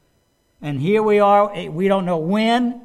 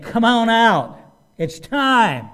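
raised, commanding shout; God's loud call; 4 semitones higher, 4 dB louder, slower than usual. Acted. Preacher voices the clarion call to the dead, loud summons. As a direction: call out higher and louder, to be heard. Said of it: "gonna be God's own voice".

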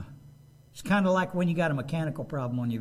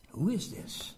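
awed question; 6 dB quieter than usual. Acted. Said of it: "They were afraid".

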